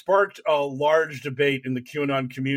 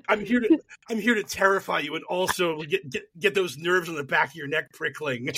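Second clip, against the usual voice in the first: mock spooky whisperer. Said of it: "It was just like".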